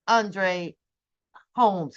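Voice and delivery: ordinary talk, nothing marked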